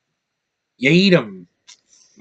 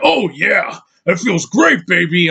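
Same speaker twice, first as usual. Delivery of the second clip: higher, louder hammed-up pleasure voice; mock sultry moan; 5 semitones higher, 5 dB louder, slower than usual. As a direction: ham up a cheesy bedroom line. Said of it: "It's like".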